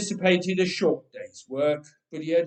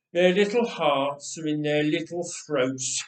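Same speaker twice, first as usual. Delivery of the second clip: nasty chuckle; 4 dB louder than usual. Acted. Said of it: "he chuckled in a, a nasty sort of way".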